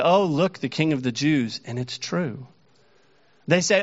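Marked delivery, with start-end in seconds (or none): 0.0-1.6 mocking. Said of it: "They mock him and say".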